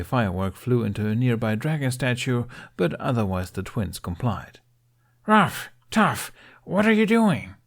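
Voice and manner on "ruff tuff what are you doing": loud high demand. A narrator's reading. Hiccup confronting the twins mid-chaos, loud demand. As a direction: call them out sharply. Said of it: "Hiccup demanded".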